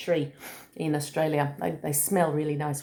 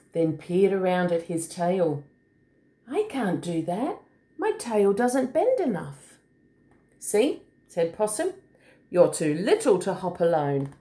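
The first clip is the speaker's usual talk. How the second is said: put-on story reading to children. A narrator's reading. Adult reading a picture book to a small child, lilting. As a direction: read it like a picture book, singsong on the hops.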